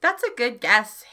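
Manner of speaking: lightly voiced grumpy old man; a hint of a cranky grandpa. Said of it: "That's the best old man voice I have".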